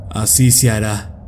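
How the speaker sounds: composed and measured; regaining calm. Acted. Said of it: "recobrando la calma".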